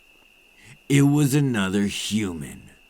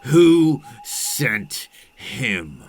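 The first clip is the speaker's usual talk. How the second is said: slow, loud, each word pressed; menacing demand; 4 semitones higher, 5 dB louder, much slower than usual. Acted. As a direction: drag out the threat. Vampire demanding answers from the listener.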